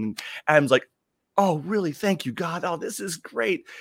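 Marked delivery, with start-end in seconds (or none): 1.4-3.7 high, gushing mock gratitude; overjoyed thanks, pitched well up; delighted. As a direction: play Adam thrilled by the offer. Adam delighted in told joke.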